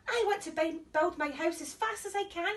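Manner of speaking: high, eager little pig; bubbling with excitement; excited pig. Acted. Excited first pig thinking.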